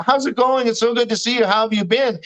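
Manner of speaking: a touch of over-friendly gushing; gushing greeting. Retold or imitated. Neighbor's greeting voiced in retold dream.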